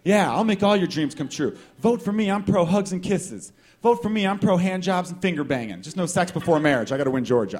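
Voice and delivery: lightly hammed-up stump promises; candidate's campaign pitch. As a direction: sell yourself to the voters. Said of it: "That's like someone saying".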